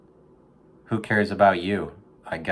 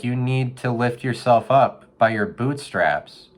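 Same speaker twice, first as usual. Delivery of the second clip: motivational speech to a raccoon; 3 semitones higher than usual. Retold or imitated. Urging a raccoon out of the gutter, hyped coach voice. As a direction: pump the raccoon up like a gym coach. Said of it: "I was like".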